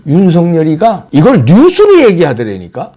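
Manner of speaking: ordinary talk, nothing marked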